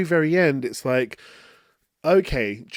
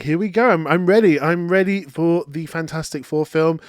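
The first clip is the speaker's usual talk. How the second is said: louder, eager fan rush; giddy fan voice, a bit louder; excited; 2 semitones higher, 4 dB louder than usual. Retold or imitated. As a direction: burst with cinema excitement. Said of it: "and I was like".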